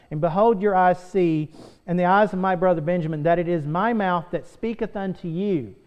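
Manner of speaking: loud, declaiming King James reading; full-voiced Bible reading; scripture reading. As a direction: proclaim the verses from the pulpit. Reads Joseph's words aloud.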